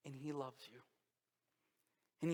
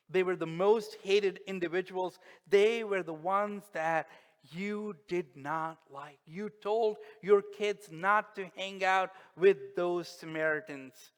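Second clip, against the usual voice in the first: louder, slower, pressing each word; forceful preaching; 2 semitones higher, 9 dB louder than usual. Acted. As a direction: hammer the point home. Preacher building intensity.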